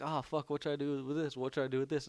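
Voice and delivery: acted-out flustered worry; retold freak-out. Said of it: "we were freaking out".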